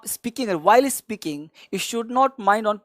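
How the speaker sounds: very slow, each word spaced; slow down to stress the rule; slow emphatic advice. Shown as a demonstration. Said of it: "ध्यान दीजिएगा". (धीमी, समझाने वाली आवाज़)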